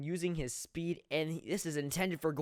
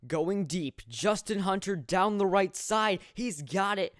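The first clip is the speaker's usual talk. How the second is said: excited play-by-play; 5 semitones higher, 5 dB louder than usual. Real, not acted. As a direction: build excitement as the pass flies. Calling a deep pass live.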